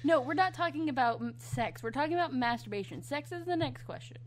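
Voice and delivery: talking while pounding the table; banging the desk. Real, not acted. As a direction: thump the table as you speak. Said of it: "Quit hitting the table".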